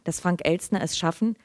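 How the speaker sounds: measured literary reading aloud; Lesung. A narrator's reading. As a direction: read the story evenly to an audience, in clear phrases. (ruhig vorgelesene Erzählung)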